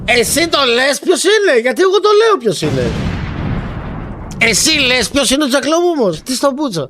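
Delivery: high-pitched, exasperated retort; indignant challenge. Real, not acted. Streamer challenging a caller about Jack Lop, indignant. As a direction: throw the question back, pitched high. Throws the caller's question back.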